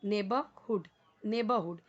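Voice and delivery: नेबरहुड said as "nebə-hood", no r sounded; teacher's pronunciation demo. Shown as a demonstration. Teacher modelling नेबरहुड for students, clear and deliberate. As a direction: model नेबरहुड slowly for the class. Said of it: "इसको हम पढ़ेंगे नेबर".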